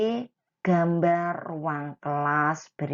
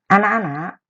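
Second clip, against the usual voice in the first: calling out; 3 semitones higher, 10 dB louder, faster than usual. Real, not acted. Teacher calling class to attention.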